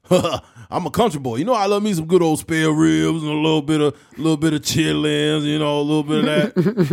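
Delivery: folksy Shannon food talk; Shannon impression. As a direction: savor the food talk like a country boy. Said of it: "he's like".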